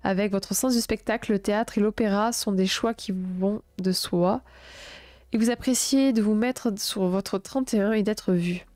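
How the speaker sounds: even, projected reading voice; written-text narration, a little lifted; horoscope read aloud. A narrator's reading. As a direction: read it out clearly in measured phrases.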